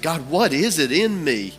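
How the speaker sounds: stretched-out, searching prayer; retold prayer. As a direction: plead upward, as if praying on your knees. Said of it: "I prayed and said".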